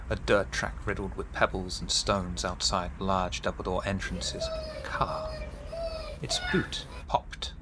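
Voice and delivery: game master scene-setting. A narrator's reading. Game master describing the factory to the players, measured scene-setting. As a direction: set the scene phrase by phrase, softening at the end.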